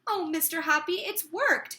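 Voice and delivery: a touch of joyful crying out; crying out joyfully. Acted. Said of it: "she was crying".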